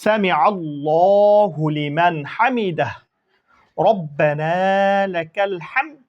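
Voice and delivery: slow, drawn-out Arabic recitation; prayer recitation. Shown as a demonstration. Teacher recites the prayer for students, slow and drawn out. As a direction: chant each word slowly and clearly for learners. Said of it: "উচ্চারণ পরে আসি".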